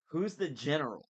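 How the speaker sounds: put-on light French accent on general. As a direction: say it with a French lilt. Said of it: "said it with a French accent".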